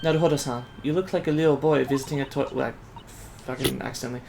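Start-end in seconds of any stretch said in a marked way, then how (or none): 0.0-2.5 put-on soft, lightly Asian-accented young assistant; restrained Asian accent, softly spoken; light Asian immigrant accent. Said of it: "like, an Asian immigrant".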